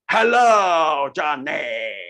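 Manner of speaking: wide-mouthed, booming call; big open mouth voice. Shown as a demonstration. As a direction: open wide and boom the greeting. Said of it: "with a big, wide open mouth".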